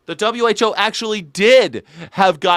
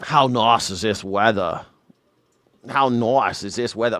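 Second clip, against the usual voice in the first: put-on moderate Aussie accent, lower pitch; Australian accent; 5 semitones lower than usual. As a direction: imitate an Australian friend's everyday accent. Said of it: "he turns up his accent when he drives".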